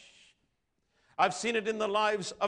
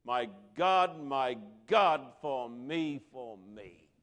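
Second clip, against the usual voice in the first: weeping prayer; 4 semitones lower, slower than usual. Retold or imitated. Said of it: "holding on to the cross and weeping".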